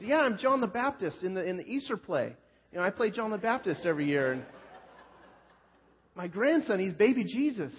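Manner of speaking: high, bright-eyed gushing coworker; eager Billy voice. Retold or imitated. Billy beaming at the new guy over his hat, high eager voice. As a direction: pitch it up like a proud, beaming church man. Billy bragging about Easter play.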